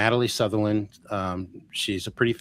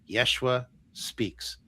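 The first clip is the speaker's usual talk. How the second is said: slow, quiet pronouncement; hushed, drawn-out oracle voice; solemn channeling voice; 5 dB quieter, much slower than usual. Retold or imitated. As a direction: intone it like a trance message. Medium channeling Jesus, solemn.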